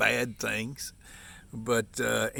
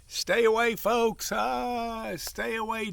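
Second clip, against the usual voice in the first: high, sing-song warning cry; mock alarm call; 11 semitones higher, slower than usual. Warning viewers off Ford in a high mock alarm.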